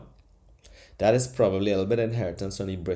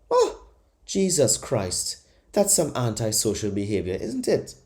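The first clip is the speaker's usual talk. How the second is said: mock docile local. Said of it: "they say".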